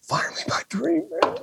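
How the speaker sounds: giddy disbelief, voice climbing very high; overjoyed. Retold or imitated. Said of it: "I'm sitting there going".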